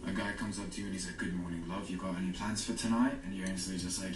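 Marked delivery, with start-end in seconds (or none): 1.2-3.1 put-on suave British accent. James Bond type chatting someone up, British accent. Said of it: "British accents, you instantly think sophistication".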